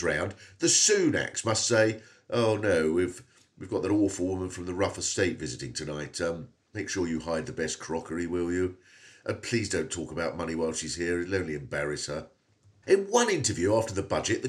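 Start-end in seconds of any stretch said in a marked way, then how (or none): 2.3-12.3 lower, hushed snooty aristocrat; posh snobby voice. Retold or imitated. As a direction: look down your nose at the guest. Imagined posh Sunak family voice.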